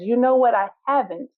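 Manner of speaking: a lightly voiced, calmly assured elephant. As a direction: answer with unhurried calm. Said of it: "the elephant calmly looks at the puppy and says".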